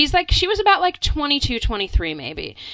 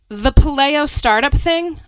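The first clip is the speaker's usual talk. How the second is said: loud, slow, raised-pitch mimicry; mock a woman talking far too loudly on her phone; imitated phone screaming; 6 semitones higher, 8 dB louder than usual. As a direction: overloud imitation, drawn out. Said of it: "practically screaming into her phone".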